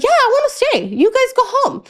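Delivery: put-on high, childish plea; little kid voice. Imitating her little brother begging his parents to stay. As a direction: mimic a small boy begging to stay.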